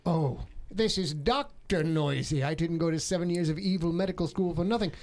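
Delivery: lightly voiced movie villain; Bond villain voice. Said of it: "you do sound like a Bond villain".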